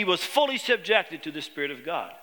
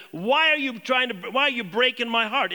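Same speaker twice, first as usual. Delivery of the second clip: mildly impassioned appeal, a little raised; pained protest; 3 semitones higher than usual. Acted. Paul to the weeping friends holding him back, pained protest. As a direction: plead with them, as if torn.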